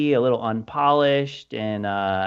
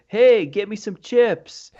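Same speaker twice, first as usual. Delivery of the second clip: calling out, higher and drawn out; mock yell; 6 semitones higher, 3 dB louder, slower than usual. Eighties dude calls after the girl walking away, mock yell. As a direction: holler it lightly after someone walking away. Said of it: "he yells after her".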